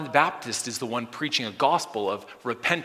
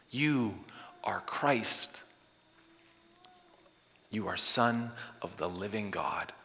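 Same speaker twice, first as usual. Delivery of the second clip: hushed, slow, unvoiced; whispered confession; 6 dB quieter than usual. Peter quietly confessing Jesus, very slow whisper. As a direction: drop to a whisper. Sudden whisper after proclamation.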